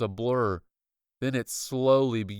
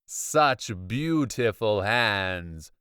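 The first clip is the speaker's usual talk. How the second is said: creepy villain voice; 3 dB louder, much slower than usual. Acted.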